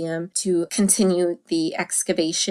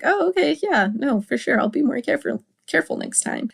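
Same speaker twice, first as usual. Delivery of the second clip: breezy high mock reply, trailing off; airy agreeable wife; 6 semitones higher, faster than usual. Wife brushing off husband's warning, breezy and high. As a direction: toss it off lightly, no fuss. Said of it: "She's just like".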